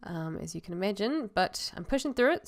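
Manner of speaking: choked-up voice with a stuffy nose. Real, not acted. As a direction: talk through a choked-up, blocked nose. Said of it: "why I sound like I'm choked up".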